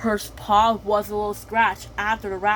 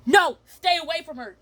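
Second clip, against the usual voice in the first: alarmed cry; 8 semitones higher than usual. Acted. Protecting the baby.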